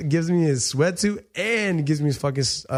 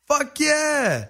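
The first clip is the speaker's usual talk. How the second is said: much higher, eager yes; thrilled yes; 12 semitones higher than usual. Retold or imitated. Fighter accepting the surf invitation, high thrilled yes. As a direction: jump at the invite.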